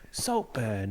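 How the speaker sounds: low, soft posh British "Saltburn"; hushed upper-class British accent. Shown as a demonstration. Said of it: "how does the posh person say Saltburn?".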